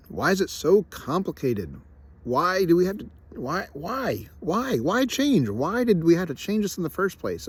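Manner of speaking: high, slow exasperated whine. Retold or imitated. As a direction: whine each why up high in mock frustration. Frustrated mock rant at change.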